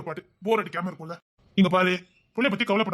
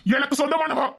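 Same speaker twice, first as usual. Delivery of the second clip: higher, louder possessive demand; 7 semitones higher, 5 dB louder than usual. Acted. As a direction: push the question harder each time. Escalating repeated question. (உயர்ந்த, சத்தமான உரிமைக் கேள்வி)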